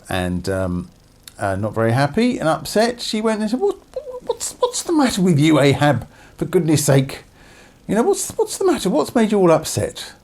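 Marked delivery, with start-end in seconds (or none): 3.6-10.1 shrill, fast exasperated nagging; wife impatiently chiding her moping husband, shrill and fast. Acted. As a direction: scold him for sulking. Jezebel scolding sulking husband.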